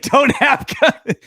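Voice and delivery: high, drawn-out mock disbelief breaking into laughter; Michael Scott. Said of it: "Michael Scott's like".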